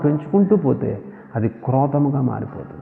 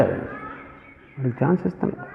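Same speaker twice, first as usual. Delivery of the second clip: soft, slowed repeat; 9 dB quieter, slower than usual. Shown as a demonstration. Preacher repeats to the church, much softer and slower. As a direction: drop much softer and slow down.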